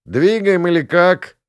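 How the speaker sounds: loud, high impatient hood; russian street thug. Acted. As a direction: push her to get moving. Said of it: "Kuker presses her to go".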